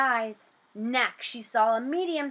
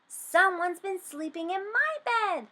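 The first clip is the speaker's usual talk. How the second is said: much higher, squeaky cub voice; 9 semitones higher than usual. A narrator's reading. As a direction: squeak like a startled little cub. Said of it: "squeaked Baby Bear".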